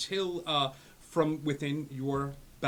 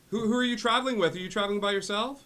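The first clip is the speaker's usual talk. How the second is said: high, raised-voice doting dad; fussing dad; 11 semitones higher, 9 dB louder, faster than usual. Acted. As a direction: check up on your son, high and loud. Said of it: "it's Dad".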